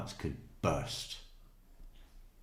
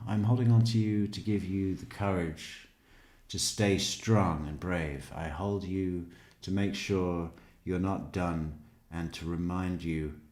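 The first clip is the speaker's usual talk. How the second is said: hammed-up sentimental reading; 3 dB louder than usual. Reading a dead mother's book aloud with mock tenderness. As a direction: ham up the sappy book.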